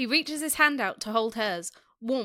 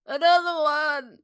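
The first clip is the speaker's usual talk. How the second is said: put-on slow, loud, slurred drunk; 4 semitones higher, 6 dB louder, slower than usual. A narrator's reading. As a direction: drag it out like a drunk. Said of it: "his words slurred".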